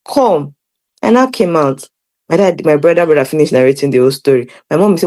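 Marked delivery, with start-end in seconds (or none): 0.1-0.5 scolding mother calling out; mom calling her out. Retold or imitated. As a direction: call her out of the room, sharply. Mom summons her to her dad.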